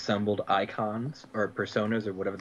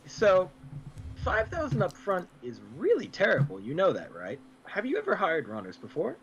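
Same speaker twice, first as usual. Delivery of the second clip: put-on Irish accent; 6 semitones higher than usual. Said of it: "That's Irish".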